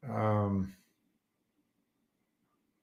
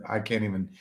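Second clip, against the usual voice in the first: ordinary talk, nothing marked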